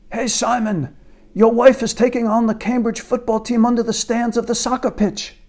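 high mock British accent, posh put-on; faux British accent. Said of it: "My faux British accent".

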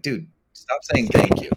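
a client fed up with endless thanks, exasperated plea. Retold or imitated. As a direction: beg him to quit thanking you, half joking. Client voiced, pleading to stop.

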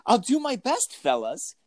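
put-on high eager boy voice; chirpy and eager; eager kid voice. Voicing eager character.

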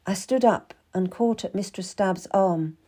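ordinary delivery, nothing marked

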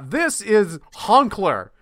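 slow, loud solemn reading of "This is Honkler"; mock TV reporter. Mocking TV news to his friend, slow solemn reporter voice. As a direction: present it like breaking news, dead serious. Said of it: "on T V and they're like".

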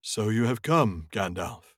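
a hint of a slow, cold wizard; drawn-out and faintly menacing Saruman read; a touch of a haughty wizard, slowed down; lightly voiced Saruman. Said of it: "a Saruman voice here".

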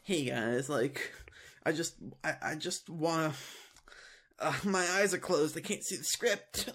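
soft, hesitant mock vlog talk; mock scripted confession. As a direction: fumble a heartfelt line you cannot read. Playing along, mocking Cyrax.

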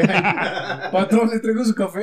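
humble servant voice, laughing; servile waiter. Pretend. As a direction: play the eager errand boy. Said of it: "perdón la costumbre". (mesero servil)

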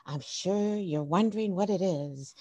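measured imitation of a child reporting live; mock reporter. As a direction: lightly play a reporter setting up a mystery. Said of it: "Like a reporter".

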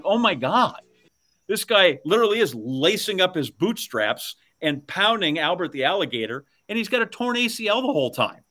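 incredulous, pitched well up; amazed. Retold or imitated. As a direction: recount it in awed disbelief. Retells amazement at injured Irwin.

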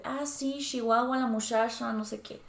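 Chihuahua and muchacha said with sh, as shiwawa and mushasha; Sonoran sh for ch. Retold or imitated. Recalling how she used to talk back home, with ch said as sh. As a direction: soften every ch in Chihuahua and muchacha to sh. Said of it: "Para mí era normal decir".

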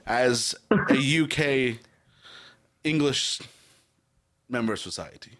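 slow, halting attempt at a British accent; pompous mock-British announcement, slowly; badly faked English accent. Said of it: "I did a bad British accent".

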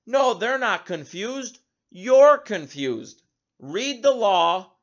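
mock scolding. Governor berating confused reporter.

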